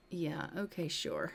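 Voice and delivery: soft, doubtful wife, sinking low on the last word; understated, dismissive doubt; skeptical agreement. Acted. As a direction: agree without believing a word of it. Wife does not believe him.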